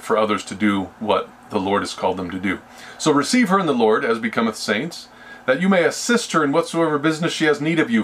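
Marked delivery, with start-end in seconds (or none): 3.0-8.0 higher-pitched verse read aloud; scripture reading. Acted. Preacher reads Paul's letter to the congregation, raised reading voice.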